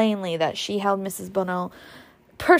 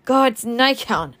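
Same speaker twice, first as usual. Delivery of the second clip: frustrated cry; 3 semitones higher, 4 dB louder, slower than usual. Acted. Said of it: "she cried at last".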